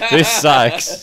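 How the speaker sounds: words pushed out one corner of the mouth; lopsided mouth talk; side of mouth. Real, not acted. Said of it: "talking out of the side of my mouth".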